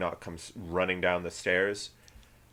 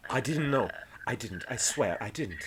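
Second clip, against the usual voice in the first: a touch of frightened denial; understated anxious protest; mildly pleading; 5 dB quieter than usual. Acted. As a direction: plead innocence, trailing softer. Captive pleads with pirates.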